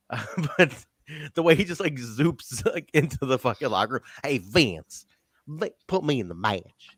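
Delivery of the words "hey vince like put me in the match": lightly imitated Southern accent; a hint of a Southern wrestler impression; A J, super Southern. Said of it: "he's super Southern here".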